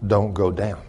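low, soft, slow command; quiet, measured voice of the Spirit. Retold or imitated. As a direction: imitate a hushed inner voice giving orders. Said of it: "the Spirit said".

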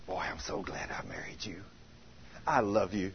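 low, hushed affection; tender. Acted. Coaching a wife to greet her husband, tender. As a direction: say it softly, like a loving spouse. Coaching a wife's loving words.

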